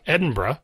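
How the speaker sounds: "Edinburgh" said as "Edin-bruh"; bruh pronunciation. Shown as a demonstration. Podcaster demonstrating the shortened form, bruh ending. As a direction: run the end of "Edinburgh" into a single "bruh". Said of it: "Now the borough becomes bruh".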